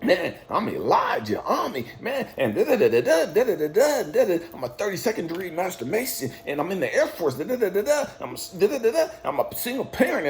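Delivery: a hint of mocking himself, amused and indignant; indignant self-mockery. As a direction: rattle off your résumé with a scoffing laugh. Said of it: "How the fuck you gonna ask me".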